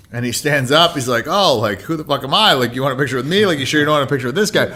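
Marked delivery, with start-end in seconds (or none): 1.3-4.7 hammed-up sarcastic outburst, a little raised; mock-offended star brushing off the fans; mock indignant joke. Perlman teasing a fan who asked for a photo, mock indignant. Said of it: "And he was joking".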